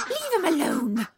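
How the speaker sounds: high, loud protective outburst; fierce. A narrator's reading. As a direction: fiercely order them off as an angry mother. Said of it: "she said fiercely".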